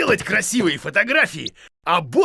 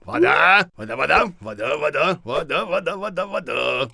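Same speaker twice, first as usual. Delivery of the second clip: a dreamy chant of вода trailing off; fading repetition; 3 semitones lower than usual. Acted. Repeating word, fading away.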